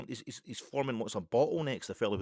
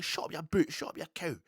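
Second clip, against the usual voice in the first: mild mock yell, higher pitch; retold angry shout; 5 semitones higher than usual. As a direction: imitate the man hurling insults back. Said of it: "he's shouting back".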